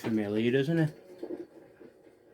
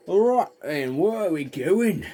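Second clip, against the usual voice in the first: jolly put-on voice; 6 semitones higher, 5 dB louder, slower than usual. Real, not acted. Cheery mock voice.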